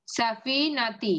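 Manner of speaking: সাফিনাতি said very slowly, each syllable spaced and held; teacher repeating the word slowly so the class can copy it; slow demo. Shown as a demonstration. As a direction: read সাফিনাতি out slowly for the students. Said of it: "দেখেন".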